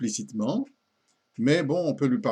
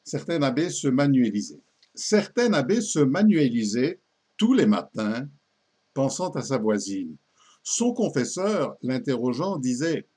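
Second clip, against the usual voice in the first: poem recitation. Acted.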